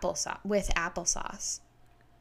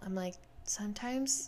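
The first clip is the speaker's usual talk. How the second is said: whisper; 7 dB quieter than usual. Real, not acted. Unvoiced whisper.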